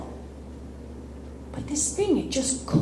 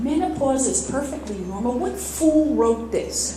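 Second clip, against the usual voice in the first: incredulous scoff. Retold or imitated. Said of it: "I'm thinking".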